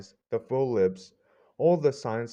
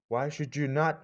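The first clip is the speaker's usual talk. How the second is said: a mild outcry, higher in pitch; lightly exclaimed protest; cried out; 5 semitones higher than usual. Acted. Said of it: "I cried".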